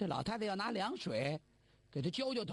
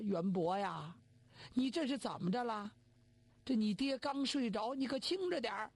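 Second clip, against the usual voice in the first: put-on old mother hushing. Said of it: "跟着老太太也动身了".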